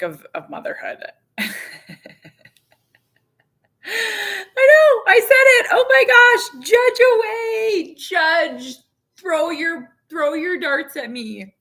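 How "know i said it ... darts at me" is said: much higher and louder, laughing; half-laughing, half-cringing admission; laughing confession. Real, not acted. Mom admitting she's sick of motherhood, laughing.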